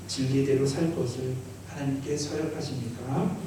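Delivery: projected ceremonial questioning, rising at the end; officiant's formal liturgical asking; formal vow questions. Acted. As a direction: put the solemn vow to the candidates. Officiant puts the baptism vows.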